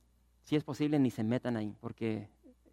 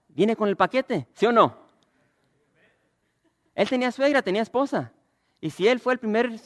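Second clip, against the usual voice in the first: higher, louder fiery sermon build; preaching at full force; 6 semitones higher, 7 dB louder than usual. Acted. Pastor to church, challenging them, loud preaching. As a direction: drive the point home to the congregation.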